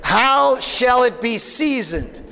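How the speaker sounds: slow, measured scripture reading. Shown as a demonstration. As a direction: read it aloud slowly with the congregation. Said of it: "read with me".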